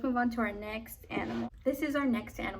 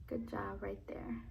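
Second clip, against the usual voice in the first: whispering; 3 semitones lower, 9 dB quieter than usual. Acted. Whispered aside during picture card.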